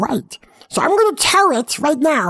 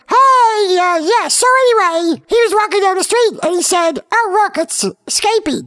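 narrator voice; 3 semitones higher than usual. Acted. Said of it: "the narrator goes".

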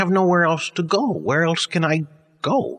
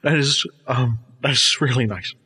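crying on the phone. Acted. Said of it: "Frank, are you crying?".

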